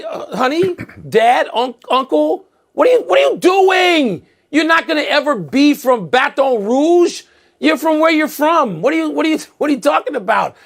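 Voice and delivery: lightly voiced relative scolding a showy uncle; mock exasperated relative. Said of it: "you say".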